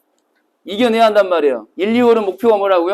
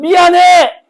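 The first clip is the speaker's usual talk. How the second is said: apology shout; 10 semitones higher, 8 dB louder, much slower than usual. Retold or imitated. Students shouting apologies in drill.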